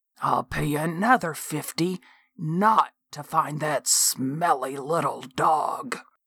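whispered aside. Narrator voices a man on a walker bending to whisper in the narrator's ear; whispering. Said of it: "He was retired now, but used to drive a dump truck for the brick plant. / He shuffled into the kitchen, / He was retired now, / Someone screeched from the interior of the house".

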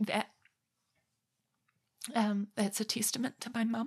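teary, tearful voice. Talking about their mum, getting so teary. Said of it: "I'm getting so teary".

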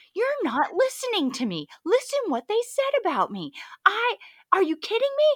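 spitting mad, very high, swooping furious yell. Recounting a Zoom call where she kept asking, retelling a spitting-mad yell. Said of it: "I'm spitting mad and I'm yelling at her like".

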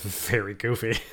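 ironic, dry, sarcastic tone. Describing something bought entirely as a goof, said sarcastically. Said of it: "I was saying that sounds very goofy in a very sarcastic voice".

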